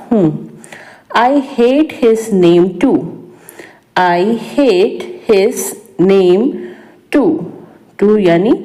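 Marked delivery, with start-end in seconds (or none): 4.0-7.3 slow, word by word, for learners; slow repeat. Shown as a demonstration. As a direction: spell out "I hate his name too" slowly. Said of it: "slow repeat for learners". (धीरे-धीरे दोहराना)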